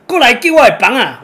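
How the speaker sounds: loud call for help from the water; shouting for help. Retold or imitated. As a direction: yell across the waves for someone to grab the board. (大声呼救)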